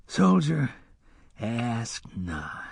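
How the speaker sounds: sighed. A narrator's reading. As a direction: sigh it out, fading to a whisper. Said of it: "Hax sighed".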